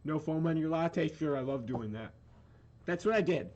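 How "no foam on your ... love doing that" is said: barista voice. Retold or imitated. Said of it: "I used to work at Starbucks".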